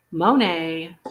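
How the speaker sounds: Monet stretched out as moh-NAY; Monet like the jewelry. Shown as a demonstration. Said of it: "as in the jewelry, not the artist".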